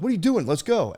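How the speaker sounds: impatient parent, acted out; retold impatience. Parent rushing a dawdling child.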